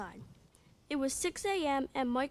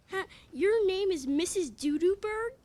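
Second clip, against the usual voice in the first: teasing laugh; 6 semitones higher, 6 dB louder than usual. Acted. Teasing the name.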